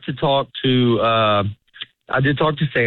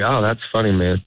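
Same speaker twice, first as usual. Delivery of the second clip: mean it, like a fellow comic enjoying the joke; genuine amused tone; 2 semitones lower than usual. Shown as a demonstration. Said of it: "in this tone".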